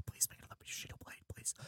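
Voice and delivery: quick, very soft whispered begging; whispered plea. Real, not acted. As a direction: whisper it like a secret wish. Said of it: "I'm whispering right now".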